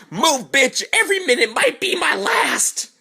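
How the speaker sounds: high, loud, hammed-up panic; panicked yell. Teller shoving past a mom to escape, panicked yell. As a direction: scream it as if running for your life. Panicked retort while fleeing.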